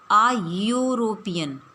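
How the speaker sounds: आ यूरोपियन slowly, the article as a short uh before yoo; clear demo. Shown as a demonstration. Teacher slowly models आ यूरोपियन. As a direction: stretch आ यूरोपियन with a y glide. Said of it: "sound हम लोग pronounce करेंगे".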